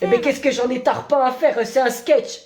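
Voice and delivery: badly done Marseille accent with tarpin; a half-hearted Marseille accent; weak put-on Marseille accent. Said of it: "tu le fais vraiment très mal".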